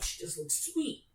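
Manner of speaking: soft breathy admiring whisper; a hushed, admiring whisper; whispered quote. Retold or imitated. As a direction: breathe it out in awe. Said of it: "I was like".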